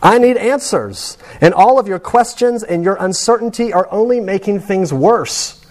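a hint of a frantic patient out of time; desperate insistence. Patient insisting to chaplain he needs answers, mildly desperate. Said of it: "No, I don't need".

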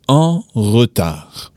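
en retard said slowly in a French accent; slow French model. Shown as a demonstration. Teacher modelling the phrase slowly for learners. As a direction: spell out en retard slowly, French r at the back of the throat. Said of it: "you would say".

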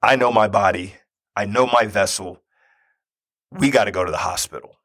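measured, weighty retold declaration; solemn insistence. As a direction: state it gravely, pausing after each sentence. Solemnly telling wife it's serious.

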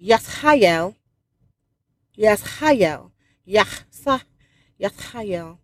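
Yashael repeated with a breathy H, yah-SHAI-el; correcting the name. Shown as a demonstration. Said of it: "hold on, F-, Father, forgive me".

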